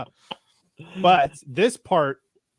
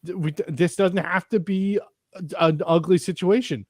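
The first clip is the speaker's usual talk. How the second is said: higher-pitched, earnest appeal; lightly acted pleading, halting at first; 4 semitones higher than usual. Gunman talking a grandpa down, mildly pleading. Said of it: "he starts pleading with him".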